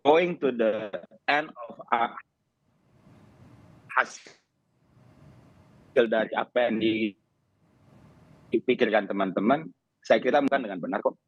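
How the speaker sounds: choppy call audio dropping out; radio breaking up. Real, not acted. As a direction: voice cutting in and out. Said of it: "Suara Anda terputus?".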